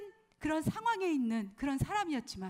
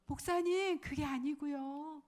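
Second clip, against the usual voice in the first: humble and polite; slower than usual. Retold or imitated. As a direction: say it meekly to the pastor. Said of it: "겸손하고 공손한 태도로". (겸손하고 공손하게 살짝 부드럽게)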